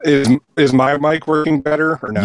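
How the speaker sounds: glitchy, digitized mic sound; robotic voice. Real, not acted. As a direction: voice breaking up like a robot. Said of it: "You still sound robotic".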